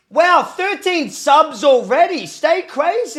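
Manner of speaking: high, loud and drawn out with delight; thrilled gasp at the number, slow; real excitement, stretched out; excited. Real, not acted. Excited at sub count.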